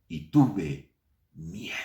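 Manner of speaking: susurrado, casi sin voz; susurro temeroso. Acted. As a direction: confiesa el miedo en secreto. Adán confiesa su miedo. (Adán susurra su miedo a Dios)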